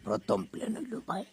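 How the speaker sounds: very high, put-on squeak; mock falsetto pitch of a first plan; squeaky high announcement. Prank caller announces a grand plan.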